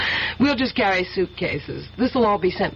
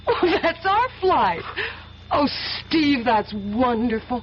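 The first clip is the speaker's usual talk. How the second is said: delighted; slower than usual. Acted. Delighted by shared flight.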